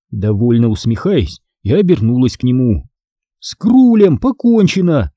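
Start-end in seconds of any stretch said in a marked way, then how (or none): 3.4-5.1 торжествующе. Acted. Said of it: "торжествующе объявила я".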